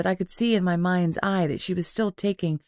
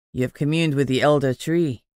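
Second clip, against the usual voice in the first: whispered; 4 semitones lower than usual. A narrator's reading. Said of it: "the male nearest me whispered".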